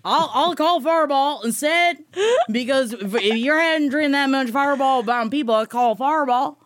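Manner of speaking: lightly put-on Southern accent; tipsy-pretend Southern accent. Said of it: "I can do a s-, a Southern accent".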